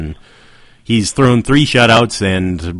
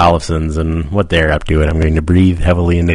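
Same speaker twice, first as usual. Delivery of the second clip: a hint of a low-voiced radio storyteller; Garrison Keillor; 4 semitones lower than usual. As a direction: lightly drop the voice, as if musing out the window. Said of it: "I'm gonna drop my voice down".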